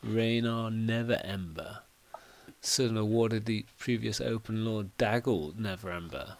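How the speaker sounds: hushed bartender passing on a name; confidential, leaning in. Acted. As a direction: softly, close to the listener's ear. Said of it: "He leans in quite closely and goes".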